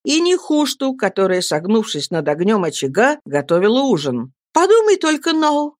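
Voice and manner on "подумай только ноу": put-on high, bright young girl exclaiming with joy; girl's happy outburst; joyful exclamation. A narrator's reading. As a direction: cry out in delight, much higher. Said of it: "радостно воскликнула девушка".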